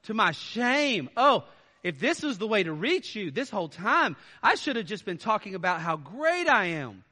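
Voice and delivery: sarcastic self-deprecation. Shown as a demonstration. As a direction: feign apology while mocking. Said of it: "You get kind of the sarcasm".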